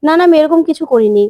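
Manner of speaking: cornered husband loudly denies the accusation; panicked denial. A narrator's reading. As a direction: deny it all in a rising panic. Cornered man denies everything.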